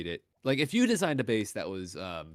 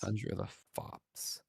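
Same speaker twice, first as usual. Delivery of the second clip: overacted anime dub; 11 dB quieter, slower than usual. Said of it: "unintentionally sounds like an anime character".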